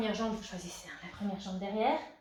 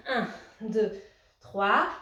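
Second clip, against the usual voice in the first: called-out count; 6 dB louder, much slower than usual. Real, not acted. Coach counting a held squat.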